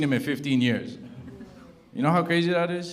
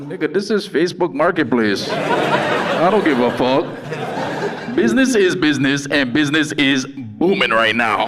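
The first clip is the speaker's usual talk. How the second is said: cocky; 6 dB louder than usual. Retold or imitated. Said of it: "I sent him a voice note back".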